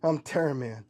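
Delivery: lightly voiced defiant cowboy; stubborn hero standing up to a villain, punchy stresses. Terra Man refuses to yield to the captain, defiant.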